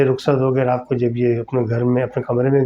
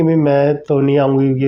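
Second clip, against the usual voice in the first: mother insists, a little louder; firm refusal; 4 dB louder than usual. Retold or imitated. Mother firmly refuses son's request to move abroad. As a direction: put your foot down.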